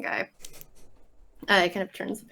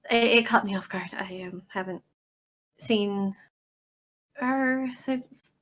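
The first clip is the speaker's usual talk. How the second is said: halting, flustered apology; hesitant, with false starts and ums; awkward apology. Acted. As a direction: stumble and pause through an apology. Character apologises for upsetting the dinner.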